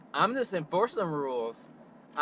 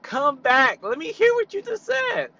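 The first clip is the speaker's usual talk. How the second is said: loud, high challenging call; confrontational yell; 10 semitones higher, 9 dB louder than usual. Retold or imitated. Challenging a racist customer to repeat it, loud confrontational call. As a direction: call her back, daring her. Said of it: "And I was like".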